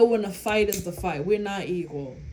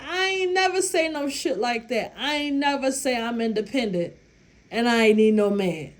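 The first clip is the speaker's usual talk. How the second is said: indignant denial; 3 semitones higher than usual. Retold or imitated. Indignantly denying to chef.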